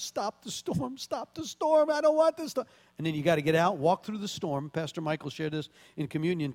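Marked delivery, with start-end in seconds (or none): 0.0-1.0 softer, higher pleading tone; mock pleading prayer. Believer prays for the storm to end, mock pleading softly. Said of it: "Sometimes we pray". 1.0-2.7 hammed-up panic, begging God; mock desperate prayer. Believer begs God to stop the storm, mock desperate whine. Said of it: "Sometimes we pray".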